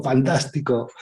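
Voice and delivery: the cave echo returning the nice word; mock echo. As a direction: echo it back gently. The echo answers back.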